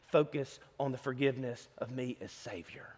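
soft, low reassuring words; Jesus quietly comforting a burdened believer; tender Jesus. Retold or imitated. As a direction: gently coax them toward forgiveness. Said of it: "but Jesus says this".

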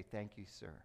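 soft, humble thanks; a gently subdued servant's reply; meek and quiet. Retold or imitated. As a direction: say it meekly to the soldier. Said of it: "You take that bag and say".

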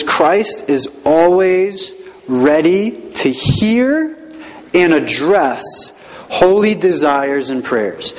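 very slow, drawn-out reading for note-taking; slow dictation. Shown as a demonstration. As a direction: dictate it word by word. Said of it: "It says".

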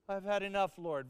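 hammed-up weary lament; a melodramatic sigh of giving up; very dramatic. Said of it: "Very dramatic".

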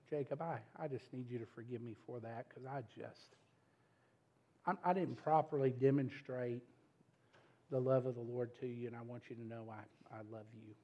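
tender apology. Retold or imitated. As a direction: ask your son's forgiveness gently. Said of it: "I had to say to Jacob".

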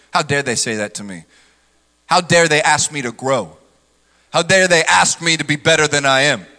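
low, indignant huff of a proud man; mock offended. Proud person offended by correction, low indignant huff. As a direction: play the offended proud one.

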